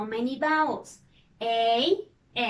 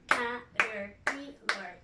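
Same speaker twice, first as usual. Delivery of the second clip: slow clapping; 2 semitones lower, 5 dB quieter than usual. Shown as a demonstration. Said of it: "How many claps?".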